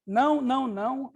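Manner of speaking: "Não, não" mais alto e agudo, firme; zangada. Acted. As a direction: recuse brava, batendo o pé. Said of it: "responde Anísia zangada". (Anísia zangada recusando)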